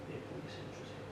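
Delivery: breathy hushed plea for the share; whispered demand. Acted. Son whispering his demand to God for his share.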